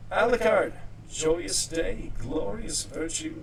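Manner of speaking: loud, high, gleeful cheer; excited. Real, not acted. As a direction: call it out like a victory. Celebrating the voice mod fix.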